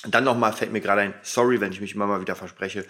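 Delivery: talking with a retainer in; words slightly blurred by a retainer. Real, not acted. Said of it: "mit der Spange reden ist noch nicht so einfach".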